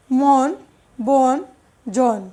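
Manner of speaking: মন "mon", বন "bon", জন "jon", each set apart; single words with a closed o: মন, বন, জন; vowel as o. Shown as a demonstration. Teacher showing one-syllable examples, মন said with o. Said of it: "অয়ের উচ্চারণ ওকারের মতো হয়".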